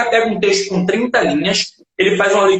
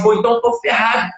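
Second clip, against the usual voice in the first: mock despairing student; 3 semitones higher than usual. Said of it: "Aí o cara vai falar assim".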